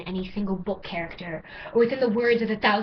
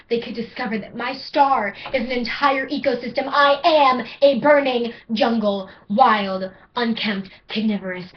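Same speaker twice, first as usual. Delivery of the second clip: rising, louder poem delivery; spoken word poem; 4 dB louder than usual. Acted. Poet addressing her ADHD, building intensity. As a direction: perform the poem with swelling force.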